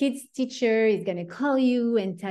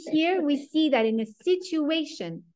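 breathless whisper through laughter; trying not to laugh; teacher cracks up mid-sentence, whispering; whispered giggle; 6 semitones higher than usual. Real, not acted.

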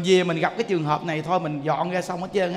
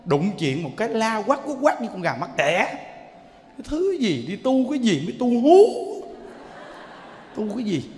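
mocking neighbor. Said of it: "người ta đánh giá, người ta nói".

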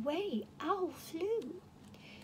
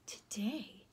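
ASMR whispered story reading; whispered storytelling. Acted. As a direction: whisper the story like a bedtime secret. Whispering reader throughout.

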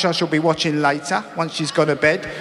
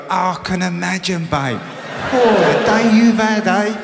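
higher, louder, sarcastic sympathy; mock sympathy; 5 semitones higher, 3 dB louder than usual. Husband sarcastically sympathising with tired wife, hammed-up higher mock sympathy. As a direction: pour on the fake sympathy. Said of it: "You have to go".

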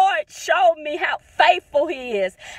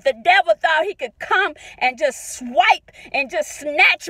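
rising, emphatic preacher's cadence; fervent preaching. Real, not acted. Mother preaching God's faithfulness on her daughter's birthday, fervent. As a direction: preach it like Sunday morning.

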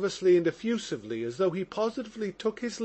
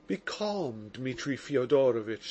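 softer, steady calming words; composed, calming; 5 semitones lower, 3 dB quieter than usual. Acted. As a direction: soothe him with your own composure. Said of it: "trying to allay Mitya's excitement by his own composure".

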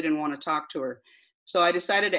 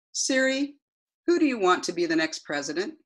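repeating to voice assistant. Acted. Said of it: "this is the transcript of that conversation".

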